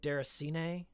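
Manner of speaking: "Deracine" tried out as dair-uh-see-nay; unsure stab at saying "Deracine"; tentative pronunciation. Shown as a demonstration. Streamer unsure how to pronounce a game title, tentative. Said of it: "I don't know how you pronounce it".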